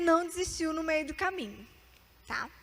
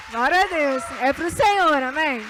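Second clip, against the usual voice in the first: joyful praise; 8 dB louder than usual. Real, not acted. Preacher exults to congregation.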